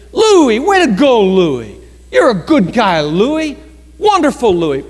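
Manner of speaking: gushing cheer, stretching the name Louis; hammed-up pep for the man giving up his seat; overly enthusiastic praise. Cheering Louis on as he moves seats, gushing. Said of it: "Rochelle says I was making too much".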